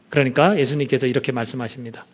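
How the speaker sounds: ordinary delivery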